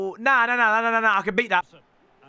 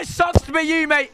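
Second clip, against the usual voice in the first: gloating shout; 4 semitones higher than usual. Real, not acted. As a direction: crow it over the beaten opponent. Gloating at beaten opponent.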